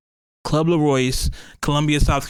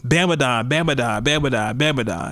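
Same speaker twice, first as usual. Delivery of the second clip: monster truck ad. Pretend. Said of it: "old monster truck commercials".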